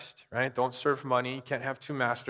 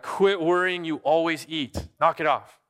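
exasperated parent; 4 semitones higher, 4 dB louder than usual. Retold or imitated. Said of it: "and you're like".

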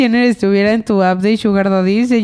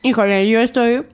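talking around an ice cube; ice in mouth. Real, not acted. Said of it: "tengo un hielo en la boca".

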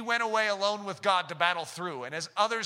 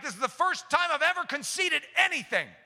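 a higher, lightly voiced puzzled Hitler; baffled Hitler; 9 semitones higher than usual. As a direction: play Hitler, confused by his own choice. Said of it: "He's like".

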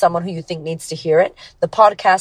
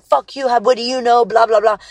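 higher-pitched mock angry retort; retold anger; 5 semitones higher than usual. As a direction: mildly imitate an indignant comeback. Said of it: "I used to get so angry".

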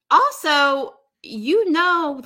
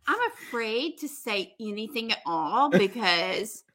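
slow, careful, hesitant imitation; mock flustered. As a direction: pick each word warily, as if afraid to speak. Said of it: "so flustered. He's like".

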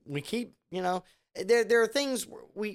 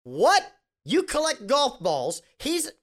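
higher, louder mock shock; mock surprise; 8 semitones higher, 4 dB louder, slower than usual. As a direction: squeal it out like a startled TV host. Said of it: "And what's your budget?".

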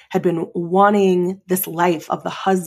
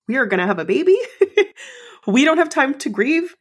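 laughing self pep talk; 8 semitones higher than usual. Retold or imitated.

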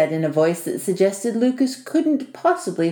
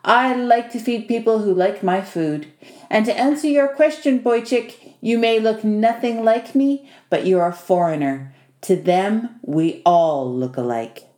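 lightly voiced host, genial and emphatic; a touch of the wry older hand explaining; Vasily; 2 semitones higher than usual. Host answering his guest's question about passing as nephew, lightly emphatic.

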